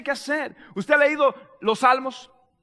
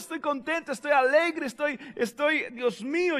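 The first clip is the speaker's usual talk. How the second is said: mock happy; 3 semitones higher, 5 dB quieter than usual. Believer telling God he is glad, mock happy. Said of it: "se siente, ok, expréselo, dígale a Dios".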